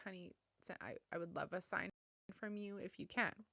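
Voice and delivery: quiet plea. Retold or imitated. Mother asking daughter for sign.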